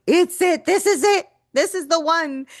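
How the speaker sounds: high, urgent mock alarm; mock panic. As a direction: act like it's the end of the world. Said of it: "a new battle feels like".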